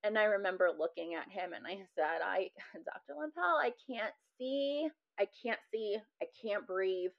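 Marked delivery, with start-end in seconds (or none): 2.2-7.1 higher, slightly strained appeal; retold plea. Patient telling her doctor of distress, mildly pleading. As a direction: imitate a helpless plea to a doctor.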